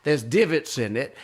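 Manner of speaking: imitated old lady, indignant and grand; Swoopy complaining. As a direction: pile up grievances like a dramatic grandmother. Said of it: "she's telling me about".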